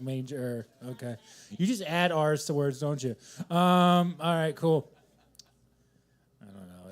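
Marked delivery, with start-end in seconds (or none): 0.0-0.7 "manger" with an R added at the end; audience member's accent. Retold or imitated. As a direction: say "manger" as his accent would, ending in an R. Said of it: "but with his accent".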